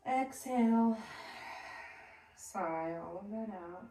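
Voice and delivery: calm breathwork cueing; guided breathing meditation. Acted. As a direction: guide the class through each breath, unhurried.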